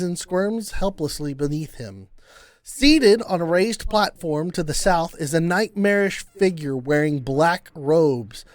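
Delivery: measured read-aloud of a scene; scene narration. A narrator's reading. Game master sets a scene for players, measured narration. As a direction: read it out as an ominous set piece.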